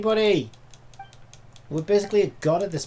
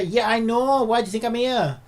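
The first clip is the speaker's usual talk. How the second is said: irritated snap; 7 semitones higher, 7 dB louder than usual. Real, not acted. Snapping back at game companion.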